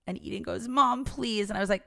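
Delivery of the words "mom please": put-on higher-pitched pleading child; begging. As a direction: plead with mom like a kid. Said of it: "she's begging you for a dog".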